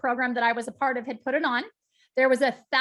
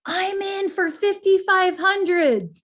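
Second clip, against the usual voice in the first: louder, slow and higher, a bold call from the back; gentleman pledging; 6 semitones higher, 6 dB louder, slower than usual. Retold or imitated. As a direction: announce the pledge firmly to the room. Man in back pledging money.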